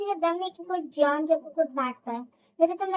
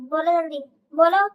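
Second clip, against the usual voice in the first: louder, pushing for an answer now; impatient demand; 6 dB louder than usual. Acted. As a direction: snap it out, demanding.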